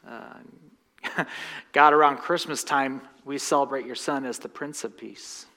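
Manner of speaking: soft, low pastoral prayer; quiet closing prayer. Acted. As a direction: pray gently over the congregation. Leads a prayer.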